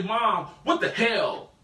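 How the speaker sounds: drawn-out, mildly exasperated protest; startled mild outburst. Acted. Child to mom who stepped on their foot, mild outburst. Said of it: "'Cause she stepped on my foot".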